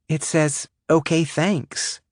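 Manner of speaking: high, slow squeak. Acted. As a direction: squeak it out, stunned. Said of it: "she squeaked out".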